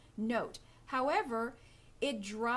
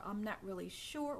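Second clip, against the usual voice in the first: unsure; 4 dB quieter than usual. Shown as a demonstration. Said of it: "it was the tone of my voice".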